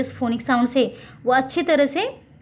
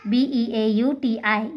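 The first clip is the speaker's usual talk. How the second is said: slow spelling out; much slower than usual. Shown as a demonstration. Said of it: "बना के दिखाया है ना".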